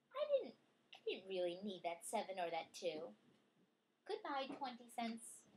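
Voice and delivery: lively storybook reading voice; reading to a child. Acted. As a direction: read it out brightly for a child. Reading picture book aloud.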